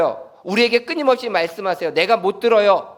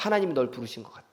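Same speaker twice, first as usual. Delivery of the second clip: soft, quick, low telling; old priest quietly telling Samuel; Eli's quiet words; 6 semitones lower, 9 dB quieter, faster than usual. Acted. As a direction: tell the boy gently and quickly, much softer. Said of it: "사무엘에게 이야기합니다".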